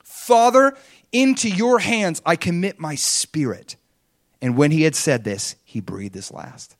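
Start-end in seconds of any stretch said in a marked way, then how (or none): 0.0-3.8 big opening cry on "Father", stretched out after; loud cry. Retold or imitated. Jesus calling out with his last breath, loud slow cry. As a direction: call out loudly, high and slow. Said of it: "Jesus called out with a loud voice".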